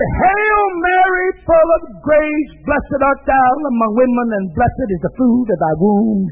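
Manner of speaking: recited prayer. Retold or imitated. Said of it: "Jesus will get you nowhere".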